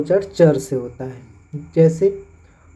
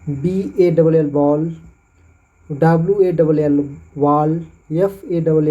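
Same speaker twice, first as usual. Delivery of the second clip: slow spelling, then बॉल with 'aul'; slow spelling demo. Shown as a demonstration. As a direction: spell slowly for the class. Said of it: "वहाँ पे ऑल का होता है". (धीमे बॉल)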